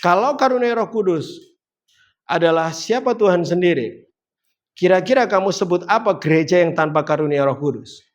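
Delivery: "kalau karunia Roh Kudus", jeda, "adalah siapa Tuhan sendiri", jeda, baru pertanyaannya; phrase by phrase, pausing after "Roh Kudus" and after "sendiri"; diucapkan ulang bertahap. Shown as a demonstration. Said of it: "gini ngomongnya". (ucapkan per frasa dengan jeda jelas)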